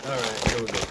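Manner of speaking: talking with teeth on plastic; words round a bag in the teeth; tearing with teeth. Real, not acted. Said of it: "actually, I'm gonna use my teeth".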